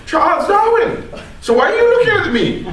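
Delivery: laughing through the joke. Real, not acted. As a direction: chuckle as you say it. Joking claim, laughing at audience.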